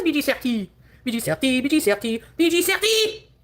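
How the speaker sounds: repeated mock French pet calls, rising at the end; playful French-accented pet name, building to a high call; exaggerated French accent. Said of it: "exaggerated French accent".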